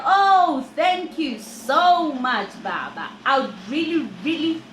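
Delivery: overflow with thanks, stretching it out; gushing thanks. Retold or imitated.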